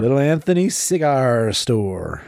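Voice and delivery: classical stage acting. Shown as a demonstration. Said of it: "a Shakespearean thing of awesomeness".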